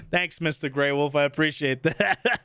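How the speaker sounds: low-pitched thanks through chuckles; laughing thanks. Real, not acted. Streamer thanking a new subscriber, laughing. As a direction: talk while still laughing.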